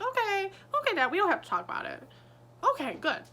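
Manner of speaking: hammed-up nervous teen hurrying to drop it; mock flustered son. Mocking Clark dodging the talk.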